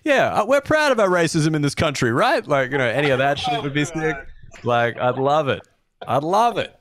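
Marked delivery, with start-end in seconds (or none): 0.1-2.5 mock sincere. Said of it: "your, like, very, like, sincere style".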